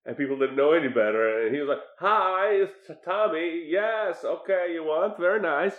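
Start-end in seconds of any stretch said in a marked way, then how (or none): 2.0-5.7 lightly voiced Tommy Wiseau, a touch higher; a hint of Tommy Wiseau taking phone orders; imitating Tommy Wiseau. James Franco as Tommy Wiseau answering callers, lightly imitated. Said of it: "answering the phones in character as Tommy Wiseau".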